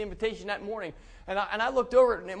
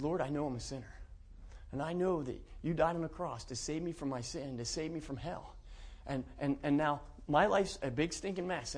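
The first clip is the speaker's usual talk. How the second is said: quiet, humble plea to God; subdued, earnest confession; retold sincere prayer; 3 semitones lower, 5 dB quieter than usual. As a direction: recall a prayer, softly and simply. Retells his prayer of salvation.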